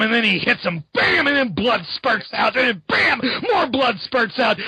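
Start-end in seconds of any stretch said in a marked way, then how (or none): 0.9-1.3 high mock punch sound effect. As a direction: shout a comic-book bam, high up.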